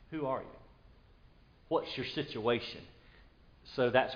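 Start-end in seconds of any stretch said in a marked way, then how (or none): 0.1-0.5 reflective quiet. Shown as a demonstration. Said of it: "In other words, and catch this".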